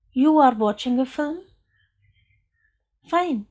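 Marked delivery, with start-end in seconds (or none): 0.1-1.4 "You are watching a film" with a rise on "film"; raised question tone. Shown as a demonstration. Teacher repeating an example for the class, raised question tone. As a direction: make the statement a question by lifting the end. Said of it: "If I am raising my tone".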